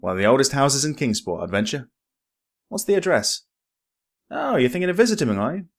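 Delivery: lightly voiced distrustful villager; wary old local. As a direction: probe the stranger's motives. Suspicious old local NPC.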